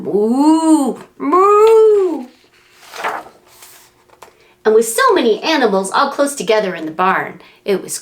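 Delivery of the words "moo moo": high loud crying moos; calf moos. Acted. Voicing frightened calves for a child, high moos. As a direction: moo like a scared calf. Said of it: "little cows were going".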